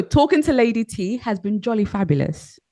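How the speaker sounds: posh British delivery; well-to-do English accent, evenly said. Shown as a demonstration. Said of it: "Let's do the posh".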